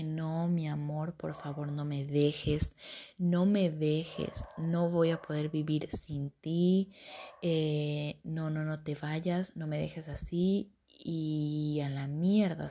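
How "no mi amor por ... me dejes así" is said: drawn-out, imploring retelling; retold pleading. Retelling how she begged her boyfriend to stay, slow pleading. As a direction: beg slowly, stretching the words, as in a retelling.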